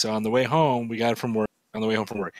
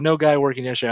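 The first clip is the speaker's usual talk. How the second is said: broken English; 4 semitones higher, faster than usual. Retold or imitated. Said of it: "really bad broken English".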